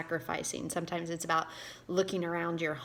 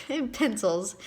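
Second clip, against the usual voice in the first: laughing; 4 semitones higher, 5 dB louder than usual. Real, not acted. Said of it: "Can you just say hashtag nerd".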